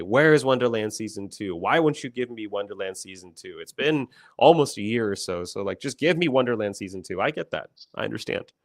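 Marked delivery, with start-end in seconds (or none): 0.0-7.2 mildly raised imitation of demanding fans; hammed-up fan holler, a bit louder; playful mock complaint from impatient fans; mock yell. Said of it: "scream and yell and holler and say".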